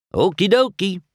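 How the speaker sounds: high, eager character voice; Mater obeying. A narrator's reading. Mater cheerfully obeys.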